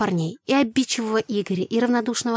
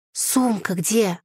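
very slow, bewildered insistence; slow, stunned, insistent question; insistent repeating; much slower than usual. A narrator's reading. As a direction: draw out the question in disbelief. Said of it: "твердила я".

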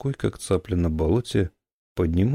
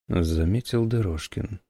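ordinary delivery, nothing marked

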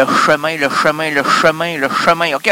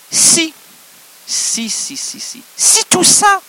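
excited build; 12 semitones higher, slower than usual. Acted. Overexcited build-up.

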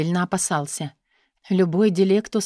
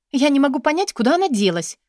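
higher, louder, lost-sounding; feigned confusion; 8 semitones higher, 4 dB louder than usual. A narrator's reading. Katya pretending to the guard she lost her bag, confused. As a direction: play helpless about the bag. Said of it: "растерянно произнесла Катя".

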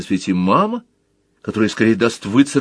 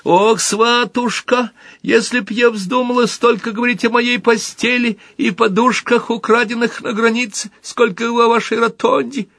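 plaintive mother voice; 13 semitones higher than usual. Pretend. Little Motl plays the mother, whining plaintively. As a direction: whimper it like a put-upon mother. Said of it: "плаксивым голосом".

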